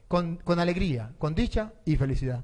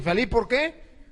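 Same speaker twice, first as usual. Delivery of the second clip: incredulous questioning; 3 semitones higher, slower than usual. Retold or imitated. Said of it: "no son capaces de soportar".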